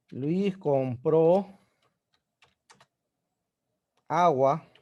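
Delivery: very slow, drawn out, with long gaps; teacher slowly building an example sentence; slow demonstration reading. Shown as a demonstration. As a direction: read it word by word for the students. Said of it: "voy a hacer un ejemplito".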